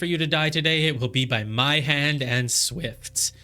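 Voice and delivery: boastful killer. Acted. Reads the game's dialogue aloud.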